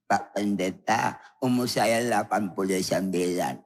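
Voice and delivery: put-on old granny. Elderly woman asking the pastor for healing, frail. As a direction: plead like a creaky grandma. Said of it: "oma-oma, popo-popo, nenek-nenek".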